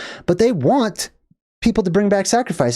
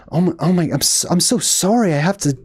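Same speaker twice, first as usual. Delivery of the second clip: tiptoeing apology. Retold or imitated. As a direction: imitate someone walking on eggshells. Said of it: "very tippy-toe, walking on eggshells".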